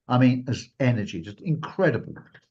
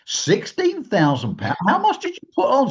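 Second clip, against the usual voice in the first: astonished; 10 semitones higher, 3 dB louder than usual. Retold or imitated. Hearing she won sixteen thousand pounds, high astonished squeak. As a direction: gasp at the huge sum. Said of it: "And I'm like".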